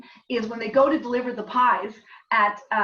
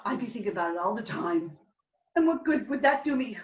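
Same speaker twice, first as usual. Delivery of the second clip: acting out both women, raised and lively; dramatic scene reading; 4 semitones higher than usual. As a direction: play the two friends confessing a murder. Playwright reads her scene aloud.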